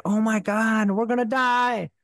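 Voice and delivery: high, slow frightened whisper-cry imitation; child holding her sister in the closet, mock terrified and high; scared child. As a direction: relive the terror of hiding in the closet. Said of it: "being like".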